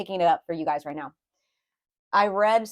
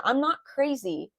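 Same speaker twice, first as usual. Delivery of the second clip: slow, higher-pitched protest; insistent protest; 4 semitones higher, slower than usual. Acted. Reader repeats the words she is hearing, slow insistent protest. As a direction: stretch it out, insisting on it. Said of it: "why I'm hearing that".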